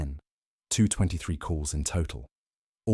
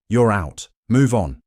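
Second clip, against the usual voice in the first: louder, higher scornful brush-off; dismissive; 3 semitones higher, 7 dB louder than usual. A narrator's reading. Cheating wife sends husband away, loud and scornful. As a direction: cut him off with contempt.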